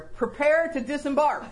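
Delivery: mock captain's order, laughing a little; a playful command to a friend. Telling her friend in the car, a mock order. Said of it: "That's my phrase".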